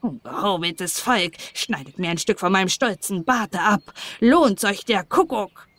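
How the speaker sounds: muttered dwarf grumble; grumbling dwarf. Acted. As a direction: mutter sourly like a miserly dwarf. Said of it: "brummte vor sich hin".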